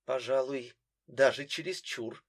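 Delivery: ordinary delivery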